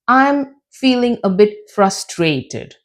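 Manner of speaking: FRUSTRATED sinking at the end; falling, down intonation. Shown as a demonstration. Teacher showing sad attitude to learners, falling intonation. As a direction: let "frustrated" drop, a touch downcast. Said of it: "So it goes down".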